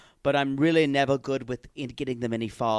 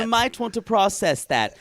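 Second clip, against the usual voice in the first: higher, hammed-up British accent; 5 semitones higher than usual. Host mimicking Tom starting to feel, British accent. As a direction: put on a mock British voice, marveling. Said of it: "say this in a British accent".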